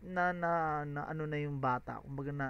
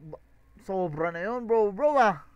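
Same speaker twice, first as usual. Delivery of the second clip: shocked outburst; 2 semitones higher, 8 dB louder than usual. Real, not acted. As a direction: call out to the viewers, stunned. Shocked at the diss. (gulat na sigaw)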